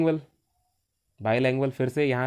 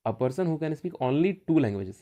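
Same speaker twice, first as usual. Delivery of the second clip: slow dictation; much slower than usual. Shown as a demonstration.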